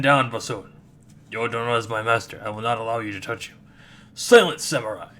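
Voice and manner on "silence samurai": furious shout. Acted. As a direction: shout him down. Spirit silences the samurai.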